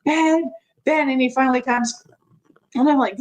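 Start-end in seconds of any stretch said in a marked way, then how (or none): 0.0-1.1 mimed call to husband, pitched higher; raised-pitch imitation of calling. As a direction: call out a name without really shouting. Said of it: "so I call my husband".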